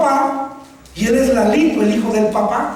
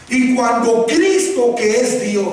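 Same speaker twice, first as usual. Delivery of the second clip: slow model phrase; slower than usual. Shown as a demonstration.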